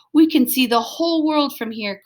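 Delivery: dog crying out in wonder at the view; excited cry. Acted. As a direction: call it out amazed from the hilltop. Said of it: "cried Alice".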